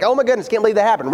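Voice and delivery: flippant. Shown as a demonstration. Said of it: "It's just a flippant use".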